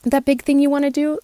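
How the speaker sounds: high, pleading inner voice; inner voice of emotions. Retold or imitated. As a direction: voice the worried emotions. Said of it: "our emotions are saying".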